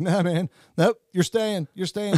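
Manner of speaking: mock refusal. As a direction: rub it in with a grin. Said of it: "they're, like, making a joke".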